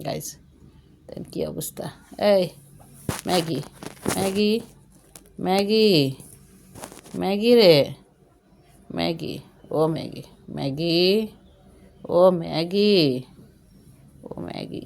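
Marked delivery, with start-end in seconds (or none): 2.3-13.0 calling the cat louder each time. Real, not acted. Owner calling the cat Maggie from across the room. 14.3-14.8 whispered coaxing. Real, not acted. Owner whispering to coax the sulking cat.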